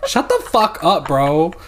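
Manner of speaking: high loud laughing yell. Real, not acted. Laughing mock outrage.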